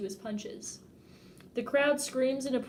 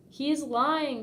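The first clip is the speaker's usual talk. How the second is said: yelled accusation; 4 semitones higher, 4 dB louder than usual. Retold or imitated. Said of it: "Chris yells".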